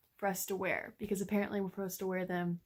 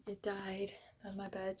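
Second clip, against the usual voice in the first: sheepish soft whisper; whispered confession; 7 dB quieter than usual. Real, not acted. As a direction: whisper it like a guilty secret. Confessing to mom about dead plant.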